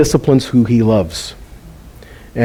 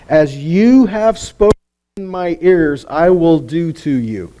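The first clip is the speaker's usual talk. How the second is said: solemn voice of God; slower than usual. Acted. God's words quoted solemnly.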